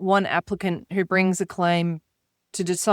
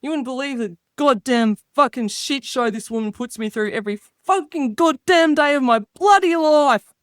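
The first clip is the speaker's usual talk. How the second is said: light Aussie bloke grumble, pitched up; ocker alter ego. Pretend. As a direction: gripe about the wife like a pub regular. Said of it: "the speaker's alter ego".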